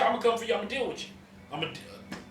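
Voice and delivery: hard, menacing retold threat. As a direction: lean into it like a warning. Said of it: "he said it more aggressive".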